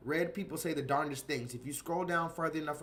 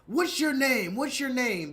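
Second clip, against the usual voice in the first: higher, louder mock yell; retold angry demand; 7 semitones higher, 5 dB louder than usual. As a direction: bark the question at the cashier. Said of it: "the red man's like".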